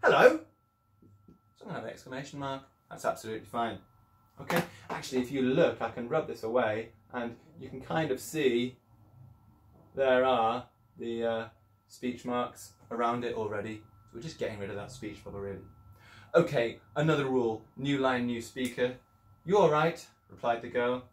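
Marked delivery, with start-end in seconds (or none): 0.0-0.4 "Hello!" called out high and loud; a big shouted "Hello!" to the girl. Shown as a demonstration. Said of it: "Maybe he shouted it". 19.5-20.1 put-on girl's reply.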